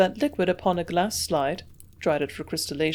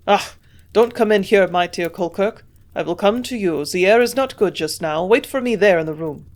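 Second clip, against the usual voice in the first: put-on gruff German accent, a bit louder; the old German chemist waving his guest back; old German scientist, lightly accented; German professor; 5 dB louder than usual. Hofer, German scientist, speaks.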